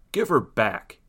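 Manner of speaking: understated kingly yell. Acted. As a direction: demand it with a contained yell. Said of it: "yelled King Merida".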